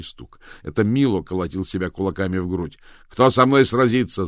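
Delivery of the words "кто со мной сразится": louder challenge; chest-beating challenge shout. A narrator's reading. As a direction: call out a fighter. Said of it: "закричал он".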